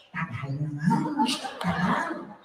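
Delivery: low, soft comic grumble; funny impatient grumbling. Acted. Filipino runs to another line, muffled comic grumbling. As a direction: mutter comically about the wait. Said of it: "starts making funny noises".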